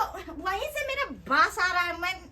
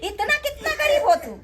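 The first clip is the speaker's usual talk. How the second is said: raised, indignant scolding; scornful scolding. Acted. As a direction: berate them with exasperated scorn. Sister-in-law scorns host's poverty. (तिरस्कार भरल डाँट)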